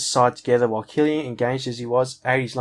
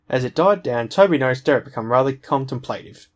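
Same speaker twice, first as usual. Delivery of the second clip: reading through hiccups; talking with hiccups. Real, not acted. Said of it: "I keep getting... like, hiccup".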